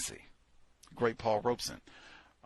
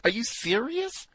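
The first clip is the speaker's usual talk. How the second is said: higher, incredulous question; disbelief; 12 semitones higher than usual. Real, not acted. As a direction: ask it in disbelief.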